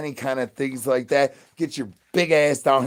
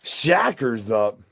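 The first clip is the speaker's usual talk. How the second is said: Shackers up stretched slow and heavy; drawn-out delivery; 4 dB louder, much slower than usual. Shown as a demonstration. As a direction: drag out Shackers up slowly. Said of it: "I don't know why I said it like that".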